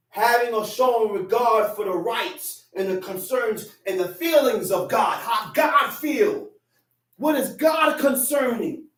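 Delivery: rising, forceful sermon delivery; preaching. Acted. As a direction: build it up like a preacher to the congregation.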